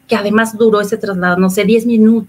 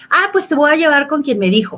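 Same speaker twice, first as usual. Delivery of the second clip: raised challenge; 5 semitones higher than usual. Retold or imitated. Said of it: "¿Quién te dijo?".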